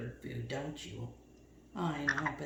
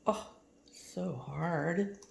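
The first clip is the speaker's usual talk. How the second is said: slow soft sympathy; 2 semitones lower, 6 dB quieter, much slower than usual. Real, not acted. Mock sympathy to parrot.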